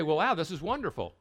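imitating a listener's naive enthusiasm; mock gushing. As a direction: ham up naive delight. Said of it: "You say".

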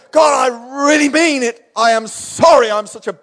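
high-pitched, earnest begging; hammed-up desperate remorse; acted pleading apology. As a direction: dramatise pleading with God. Acts out repeated desperate apology to God.

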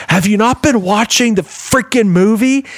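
high-pitched, emphatic imitation of a scolding; retold exasperated rebuke. Wife turns round to the talker in the theater, exasperated retold rebuke. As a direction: act out an indignant telling-off. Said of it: "and she goes".

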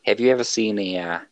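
put-on Australian accent. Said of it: "he is, in fact, from Australia".

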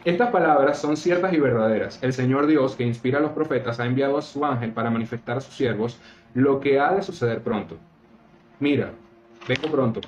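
solemn scripture reading, lightly lifted. Acted. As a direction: read the verses out like a lay preacher. Reads Bible passage aloud.

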